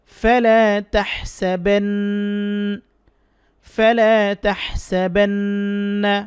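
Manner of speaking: ইহসানা drawn out very slowly with a throat হ; Quran word recitation. Shown as a demonstration. Teacher demonstrating Quran words for students, slow recitation. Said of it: "চেষ্টা করব উচ্চারণের".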